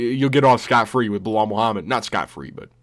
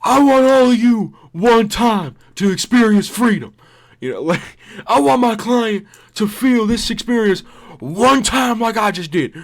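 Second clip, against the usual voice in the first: much higher and louder, grand speech; inspirational Adesanya; 11 semitones higher, 6 dB louder than usual. Retold or imitated. Adesanya inspiring the court, high and loud. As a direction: preach it like a motivational sermon. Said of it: "he might".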